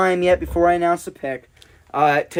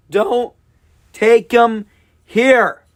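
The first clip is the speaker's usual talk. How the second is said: pleading plea; 4 semitones higher, 4 dB louder, much slower than usual. Real, not acted. Pleading with the drafting team.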